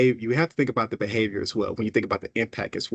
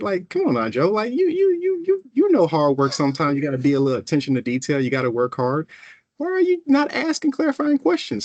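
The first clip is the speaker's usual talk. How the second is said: high, exasperated scolding voice; exasperated teammates; 6 semitones higher than usual. Retold or imitated. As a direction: pitch way up, pleading with Joe. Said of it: "your teammates, for me, felt like".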